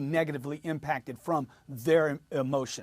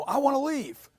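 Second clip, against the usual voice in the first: higher-pitched angry outburst, acted; angry buyer; 9 semitones higher than usual. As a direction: act out an upset buyer wanting out. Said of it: "ferocious or loud or noisy or angry".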